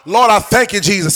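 pleading aloud to God in fervent prayer; preacher demonstrating heartfelt prayer. Shown as a demonstration. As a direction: model an earnest, wrestling prayer. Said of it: "that's how you want to be in prayer".

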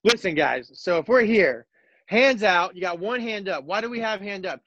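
walk them through it like a clinic; coaching demo. Shown as a demonstration. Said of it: "show the Twitter world how to".

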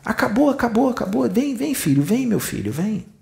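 put-on calm a frightened child home; soothing mother figure. Spirit woman gently calms the dead soldier, soothing. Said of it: "pra ele ficar mais calmo".

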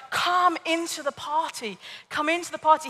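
imitating coaxing father. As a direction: lightly act a father coaxing his son in. Father coaxing sulking son in story.

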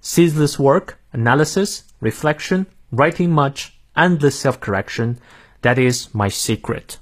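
American English read-through, phrase by phrase; careful American accent for learners. Shown as a demonstration. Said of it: "再来一遍".

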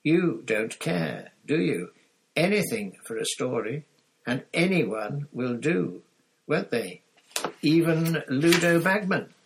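building indignation through gritted teeth. A narrator's reading. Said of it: "she said through gritted teeth".

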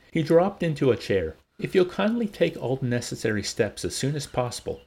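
measured audiobook-style reading; story narration. A narrator's reading. Co-host reading a novel chapter to partner, story narration. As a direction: read the chapter aloud to a listener.

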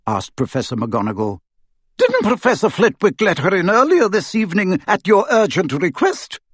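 composed stern professor. Acted. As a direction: needle him with calm reason. McGonagall voiced in story.

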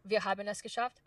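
German line in a faked native accent. Actor repeating her trailer line, in a German accent. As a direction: say it in German, rising at the end. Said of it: "I can fake the accent well enough".

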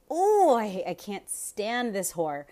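shrill mock pick-me voice; pick-me woman. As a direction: sneer like a smug pick-me. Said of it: "pick-me bitch".

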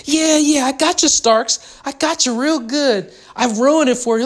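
lightly voiced high giggly mock, a hint of a little girl; mocking friend's gleeful gloat, a light girlish voice. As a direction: tease like a gloating schoolgirl, only lightly. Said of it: "chuckled inside like a little girl".

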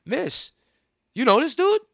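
calling out loud. Retold or imitated. Warning a stranger on the train, loud high call-out. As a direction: call out to warn the woman. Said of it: "and I said it out loud".

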